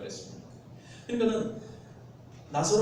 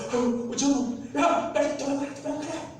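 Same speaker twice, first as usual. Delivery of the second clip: much higher, urgent mock shout; yelling at the screen; 9 semitones higher than usual. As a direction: warn the hero to run. Audience yelling at screen hero. (관객이 화면 속 주인공에게 다급하게 외치듯)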